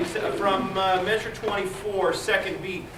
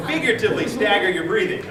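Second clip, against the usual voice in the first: laughing; 2 semitones higher, 6 dB louder than usual. Real, not acted. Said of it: "literally, no".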